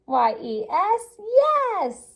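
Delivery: letters first, then a high loud yes; spelled-out excited yes. A narrator's reading. Spells then cheers the answer.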